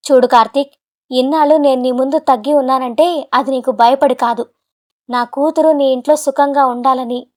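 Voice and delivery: a father finally standing up to him; stern. Acted. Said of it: "గంభీరంగా". (గంభీరంగా నిలదీస్తూ)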